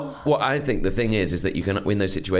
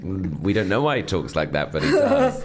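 imitating mum; 4 semitones lower than usual. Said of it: "My mum especially enjoyed that idea of".

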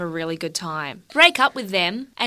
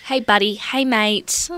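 1 condescending. Retold or imitated. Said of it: "I used to do that to rile people up".

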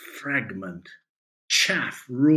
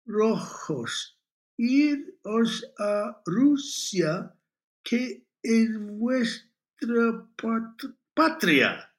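slow, high, halting Spanish; laboured syllable-by-syllable reading aloud; slow beginner's reading; 10 semitones higher, 3 dB louder, much slower than usual. A narrator's reading. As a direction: sound it out word by word like a beginner. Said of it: "read, slowly, like a beginner".

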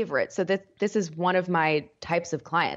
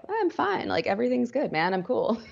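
high, breezy voice of someone in denial; mock carefree denial; 5 semitones higher than usual. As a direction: play it off as totally fine. Acting out denial voice.

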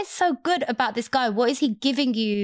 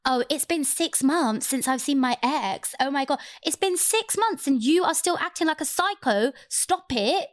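high mocking impression of a catty ex; imitating Ruby; 4 semitones higher than usual. Imitating Ruby ranting about her ex, high and mocking. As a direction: play her as petty and whiny, pitched up. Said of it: "Ruby was like".

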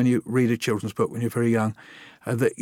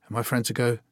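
ordinary talk, nothing marked

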